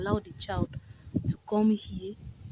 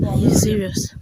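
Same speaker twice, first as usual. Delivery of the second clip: louder, stunned outburst; disbelief; 7 dB louder than usual. Real, not acted. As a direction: blurt it out in shock. Shocked at building near ravine.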